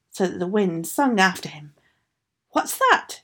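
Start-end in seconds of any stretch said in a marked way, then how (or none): 2.5-3.2 troll screech. Acted. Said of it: "he screeched".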